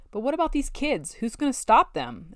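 pointed demanding question. A narrator's reading. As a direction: press them hard for an answer.

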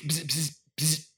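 soft low buzzing like his own phone; phone buzz imitation. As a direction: mimic a quiet phone vibration. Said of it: "mine does two beeps".

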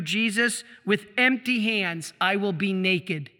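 solemn, lingering prayer words; devout prayer reading. Acted. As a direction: read it as a heartfelt prayer. Reads saint's prayer aloud.

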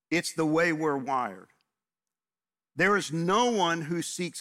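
preaching. Acted. Pastor urging his congregation to look for God, preaching with force. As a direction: drive each point home to the congregation.

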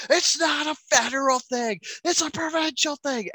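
half-hearted imitation of a screaming protester; imitating yelling man. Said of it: "And he's just yelling".

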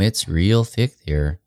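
slow, lightly voiced Dakota drawl on real thick; imitating the lady describing her home accent. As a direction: lean into a mild Midwestern accent. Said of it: "Dakota accent".

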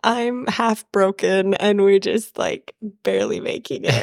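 hoarse, breaking sick voice. Real, not acted. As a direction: voice cracking from a cold. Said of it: "with a squeaky voice and an uncontrollable cough".

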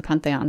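Pantheon said the French way, nasal pan-tay-ON; French pronunciation. Real, not acted. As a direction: Pantheon with a French nasal vowel, stress on the end. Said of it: "pardon my horrendous French accent".

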